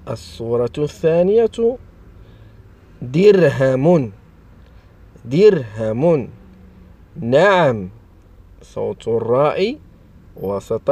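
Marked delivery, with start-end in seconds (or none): 3.0-6.3 slow, drawn-out dictation of a word; slow enunciation. Shown as a demonstration. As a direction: stretch each syllable for young learners. Teacher sounds out example word. (نطق بطيء ممدود للتعليم)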